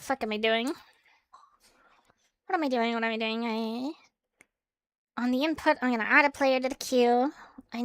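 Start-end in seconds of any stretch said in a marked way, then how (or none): 0.7-2.9 slow whisper to self. Real, not acted. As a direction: whisper it slowly.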